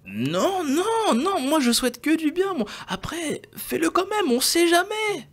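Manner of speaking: high-pitched cartoon sidekick swearing he means well; Mogo Junior. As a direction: squeal your innocence like a little gremlin. Mogo Junior protests innocence.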